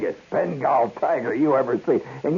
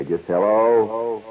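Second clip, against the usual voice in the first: long drawn-out hello into the echo; echo test; 4 semitones lower, much slower than usual. Shown as a demonstration. Host trying out the echo chamber, drawn out. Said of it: "Let's just try a little bit".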